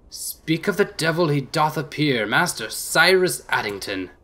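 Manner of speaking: slow, showy ringmaster announcement; slow, grand circus-act introduction. Acted. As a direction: present him like a circus act. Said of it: "speaks like he's presenting a circus act".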